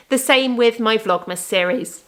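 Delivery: hoarse, voice giving out; croaky, voice starting to fail; losing voice. Real, not acted. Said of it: "losing my voice".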